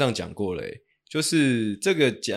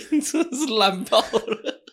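laughing at him; 12 semitones higher, slower than usual. Real, not acted. Host mocking a bad story.

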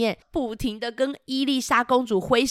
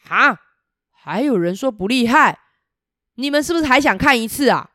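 boastful dragon; 3 semitones higher, 5 dB louder than usual. Acted. Dragon keeps bragging.

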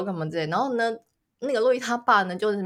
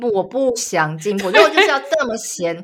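mock-defiant wife talking back; defiant mock retort; 5 dB louder than usual. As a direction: fire back at the nagging husband. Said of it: "voicing mom's defiant retort".

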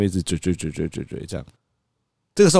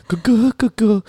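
put-on much higher, louder toddler call; imitating toddler; 13 semitones higher, 4 dB louder, slower than usual. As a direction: call out like an excited little boy. 模仿孩子. (高声模仿小孩叫)

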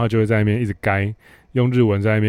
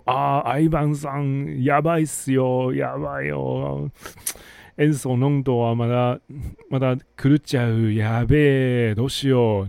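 panicked boss in Japanese; 4 semitones higher than usual. Retold or imitated. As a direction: play the flustered vice president panicking in Japanese. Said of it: "大喊说". (用日语慌张大喊的副总)

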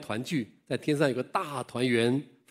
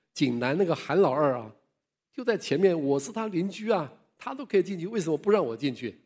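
higher, aggrieved complaint; old man protesting to the winged guards, indignant; 5 semitones higher than usual. Retold or imitated. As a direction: insist it is unfair. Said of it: "很生气".

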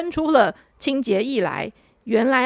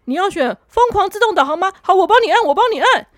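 louder, brisk, rushing her along; hurried helper; 4 semitones higher, 4 dB louder than usual. Acted. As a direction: hustle her into the car.

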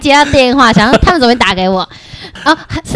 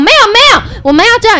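high, flustered no-no; hammed-up fright, high on the first words; mock panicked denial; 11 semitones higher, 3 dB louder than usual. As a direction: imitate a scared guy protesting. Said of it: "那男的就很恐慌".

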